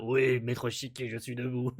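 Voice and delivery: slow, smoother robot reply; lightly voiced Pino, slow and even; cleaner Pino voice. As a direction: redo the line without the rasp. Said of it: "j'ai fait une voix un peu rauque".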